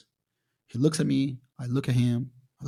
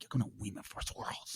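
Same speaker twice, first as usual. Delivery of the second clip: breathy whispered thought to himself; muttering his own prediction under his breath; hushed inner voice; 3 semitones lower, 9 dB quieter than usual. Retold or imitated. An athlete recalling his secret boast, whispered.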